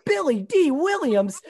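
slow, suave name drop; Billy Dee Williams impression. Shown as a demonstration. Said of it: "I go".

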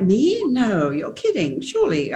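incredulous, not-worthy protest; feeling unworthy. Acted. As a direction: act out modest disbelief at being honoured. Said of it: "sort of "I am not worthy" kind of feeling".

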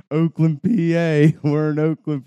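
loud, high-pitched holler; imitated yelling. Friend yells Oakland leaving the stadium, shouting. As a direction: holler it like a fan outside a stadium. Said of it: "he's just yelling".

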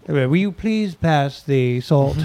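mock posh English accent, slow and proper; English accent at the dinner table, asking for salt. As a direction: ham up a polite English dinner guest. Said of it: "I would do the English accent at dinner".

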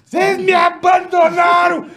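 high, slow, shouted complaint; whiny drunk friend. Retold or imitated. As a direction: wail like you were abandoned. Friend covered in filth whining. (amigo bêbado reclamando, voz aguda e chorosa)

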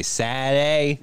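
imitated Boston "Saturday"; exaggerated Boston vowels; Boston accent. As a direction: mimic a Bostonian saying it. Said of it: "from Boston, so she would say".

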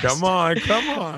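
rising, eager come on; urging. Real, not acted. Urging friend.

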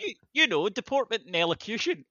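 high, a hint of a posh schoolgirl; posh lady voice. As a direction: put on the old-money accent, lightly. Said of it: "proper posh person".

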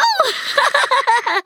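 high, gleeful burst of laughter. Acted. Gloating over his new sound pad.

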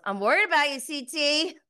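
mock concern. Larsa heckling C T.

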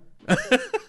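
high cackling evil laugh; villain laugh. Acted. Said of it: "Tu sabe dar uma risada de vilão?". (risada de vilão maligna)

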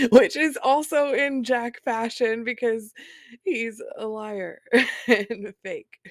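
amused, scornful laughing; laughing scornfully. Real, not acted. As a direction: scoff at him through laughter. Mocking ex's lies while laughing.

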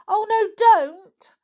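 very high, loud, slow plea; begging. A narrator's reading. Anne begging Nobby not to whip Pongo, high slow plea. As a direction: plead with him to stop. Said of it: "begged Anne".

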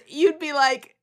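high, loud and slow through laughter; laughing quote. Retold or imitated. Co-host retelling a Love Island flirting flop, laughing hard. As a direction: crack up while quoting her.

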